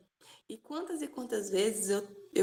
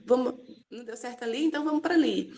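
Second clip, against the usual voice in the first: carefree plan-B attitude; 3 semitones higher, 5 dB louder, faster than usual. Retold or imitated. Retelling her old carefree self to the listeners, mock breezy and upbeat. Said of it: "eu sempre fui uma pessoa, tipo assim".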